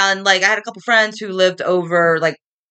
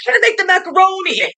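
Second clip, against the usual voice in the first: higher-pitched put-on Boston accent; mock Boston accent; 8 semitones higher than usual. Friend performing the accent like a circus clown, hammed-up Boston accent. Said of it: "Can you do the accent".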